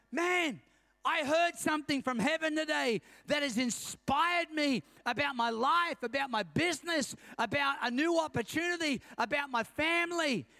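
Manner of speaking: punchy acted enthusiasm, phrase by phrase; inspired enthusiasm. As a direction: play someone fired up after church. Acts out inspired churchgoer leaving service.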